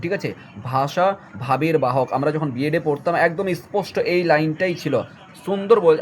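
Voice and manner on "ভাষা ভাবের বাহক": slow emphatic reading. Shown as a demonstration. Teacher stresses the key line to students, slowly. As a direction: lower and slow, each word weighed. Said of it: "এইটা খুব important".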